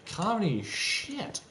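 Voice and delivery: hammed-up high mocking voice; mock critic voice. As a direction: sneer it out like a snooty reviewer. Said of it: "It's like".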